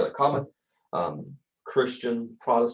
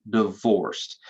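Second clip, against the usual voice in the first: divorced said like a dreaded scandal; scary word voice; 3 dB louder than usual. Shown as a demonstration. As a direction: say divorced as a shocking sin. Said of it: "in that scary word voice".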